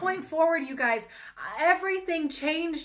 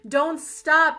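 a louder preacher's push on don't stop; urging call; 6 dB louder than usual. Real, not acted. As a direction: press the listener on, punch it out. Preacher exhorting the viewer.

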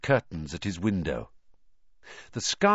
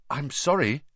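shaky; 3 semitones higher than usual. Acted. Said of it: "he said shakily".

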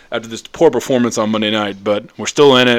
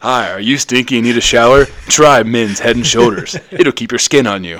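mock shampoo ad; 4 dB louder than usual. Host parodying a Head and Shoulders commercial, hammed-up ad read. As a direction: sell the shampoo like a TV ad. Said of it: "Did I say that right?".

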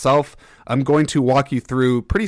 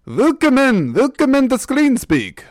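put-on very high, loud German-accented vampire voice; over-the-top mock vampire greeting; Count Chocula; 14 semitones higher, 5 dB louder than usual. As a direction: ham up a German welcome like a cartoon Dracula. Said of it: "I sound like Count Chocula there".

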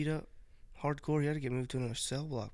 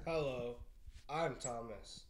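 lightly put-on introduction voice; softly hammed-up self-introduction; cringy introduction; 8 dB quieter, much slower than usual. Friend posing as Thomas for the stream, cringily. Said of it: "That is so cringy".

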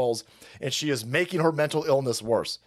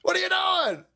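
yelling dad; slower than usual. Retold or imitated. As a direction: shout like a furious sideline father. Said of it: "my dad's sitting there going".

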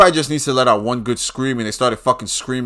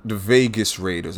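usual speaking voice

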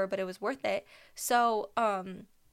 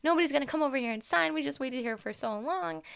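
mock grumpy complaint; 5 semitones higher, 4 dB louder than usual. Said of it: "I was in such a bad mood".

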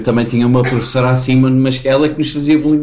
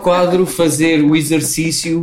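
imitating teacher. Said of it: "Tipo, dizia".

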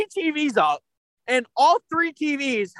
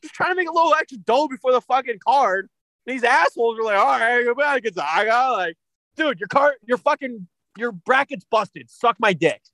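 angry rant. Real, not acted. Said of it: "The speaker's angry moment of the week".

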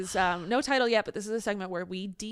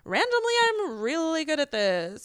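smug diva voice; 4 semitones higher, slower than usual. Retold or imitated. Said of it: "Literally me just being like".

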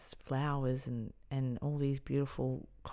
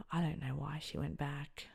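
grieving whisper; 4 dB quieter than usual. Real, not acted. Grieving the friend.

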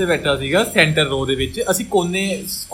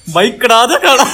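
teasing jab; 6 semitones higher, 8 dB louder than usual. Retold or imitated. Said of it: "ਕੁਣੀ ਮਾਰ ਕੇ".

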